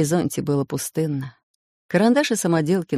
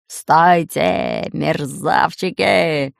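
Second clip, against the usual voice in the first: roaring pirate; 4 dB louder, much slower than usual. Acted. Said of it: "взревел рыжебородый пират".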